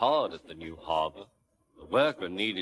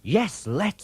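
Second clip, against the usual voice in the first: excited; 9 semitones higher than usual. A narrator's reading. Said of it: "said Percy excitedly".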